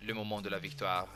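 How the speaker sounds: "le moment de la victoire" said in French, straining at the R; careful French "le moment de la victoire"; French pronunciation. Shown as a demonstration. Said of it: "those French R's are, uh, very difficult".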